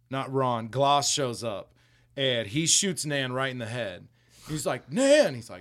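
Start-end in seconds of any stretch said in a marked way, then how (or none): 4.9-5.3 mock wail, much higher and louder; hammed-up anguished yell; anguished shout. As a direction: cry her name out in hammed-up grief. Shoots his nan, he cries out.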